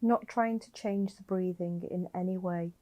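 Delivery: slightly softened meditation voice with long pauses; guided meditation. Acted. Guiding a listener lying down to notice their breathing, calm meditation voice. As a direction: gently guide the listener into breath awareness, leaving space between phrases.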